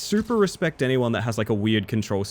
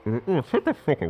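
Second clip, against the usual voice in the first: muffled behind a hand; hand over mouth; 3 semitones higher than usual. Real, not acted. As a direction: speak through a covering hand. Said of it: "I was covering my mouth with my right hand".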